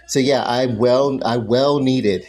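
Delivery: talking with a mouthful; eating fast between words; wolfing down food. Real, not acted. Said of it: "That's why I'm scarfing this down like this".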